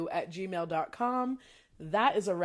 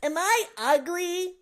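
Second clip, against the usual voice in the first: slow, higher pleading cartoon voice; SpongeBob impression; 9 semitones higher, 4 dB louder, slower than usual. Host does SpongeBob's bad-breath line, pleading. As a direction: ask it plaintively and slow. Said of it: "Does that sound like him?".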